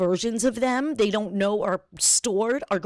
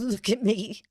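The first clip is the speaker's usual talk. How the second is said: imitated tearful actress. Imitating the actress after she cried, mild mock tearfulness. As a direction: lightly imitate her after the tears. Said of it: "Oh, like, she cried".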